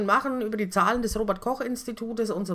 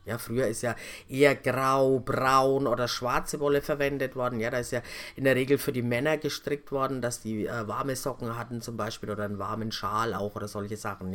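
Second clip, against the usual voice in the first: put-on old lady answering; 8 semitones lower, 3 dB quieter than usual. Voicing the old resident's answer.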